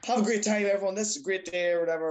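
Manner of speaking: retold burst of joy to his followers; elated. Cyclist re-enacting his video for his followers after Liverpool's win, elated.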